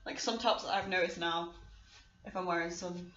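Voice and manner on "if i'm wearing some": words broken by hiccups; hiccuping. Real, not acted. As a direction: talk through the hiccups. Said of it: "sorry, I keep hiccuping".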